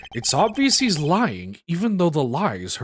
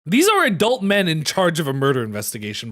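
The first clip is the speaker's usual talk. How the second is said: ordinary delivery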